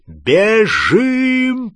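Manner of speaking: high urgent yell; roar. A narrator's reading. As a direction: bellow the order to run. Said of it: "проревел Гарри".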